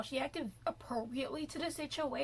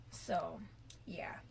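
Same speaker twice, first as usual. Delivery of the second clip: whisper; 5 semitones lower, 6 dB quieter than usual. Real, not acted. Trailing whispered aside.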